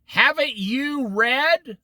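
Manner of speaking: slow pointed question. Acted. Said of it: "he says".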